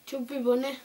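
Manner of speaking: cheeks stuffed full. Real, not acted. Chubby bunny challenge, mouth stuffed.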